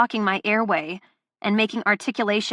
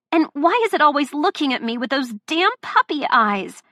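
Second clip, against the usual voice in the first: much higher, loud panicked questions; frantic rising rant; 5 semitones higher, 4 dB louder than usual. Acted. Delilah panicking about the puppy, high and loud. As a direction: spiral into panic. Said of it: "this rant".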